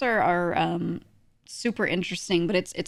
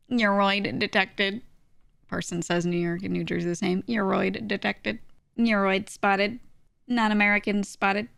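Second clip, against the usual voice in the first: mock detection alert. Streamer flagging a chatter's bad take, mock alert. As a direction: call it out like a scanner finding a target. Mock alarm about a chat message.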